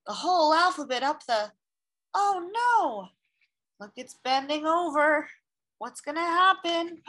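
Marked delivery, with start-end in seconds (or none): 2.1-7.0 alarmed. Acted. Reader alarmed as tree bends.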